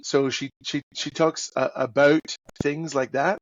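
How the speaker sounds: put-on lightly Canadian accent; a hint of Canadian on the vowels; Canadian admiral with a rounded "about"; Evelyn Lynch. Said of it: "she's Canadian".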